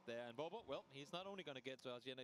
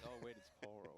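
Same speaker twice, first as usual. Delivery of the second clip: Southern twang; 4 semitones lower than usual. Retold or imitated. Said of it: "You get a little Southern twang".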